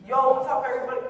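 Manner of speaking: a hint of a loud, hyped vlogger greeting; lightly hammed-up Jersey-girl vlog intro; old vlogger intro. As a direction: throw out a cheesy Jersey-girl hello, lightly. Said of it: "was that me?".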